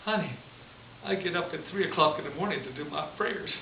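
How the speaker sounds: lightly imitated Southern US accent. Nun answering a pregnant girl, mild southern accent. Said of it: "with a southern accent".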